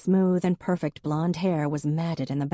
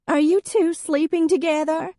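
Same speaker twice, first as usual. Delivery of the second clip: high, louder suspicious demand; jealous accusation; 13 semitones higher, 6 dB louder than usual. A narrator's reading. Jealous ex-wife confronting Em, high and loud. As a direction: throw the question like an accusation.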